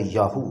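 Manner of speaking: "याहू" said as YA-HU with long vowels; pronunciation demo. Shown as a demonstration. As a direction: sound out "याहू" in two long syllables, yaa-hoo. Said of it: "तलफ़्फ़ुज़ है वो है".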